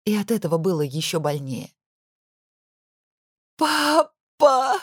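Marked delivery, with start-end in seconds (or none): 3.6-4.8 loud, high sobbing cry of «Папа!»; sobbing aloud. A narrator's reading. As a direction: wail it through tears. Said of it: "зарыдала я в голос". (рыдая в голос: «Папа!»)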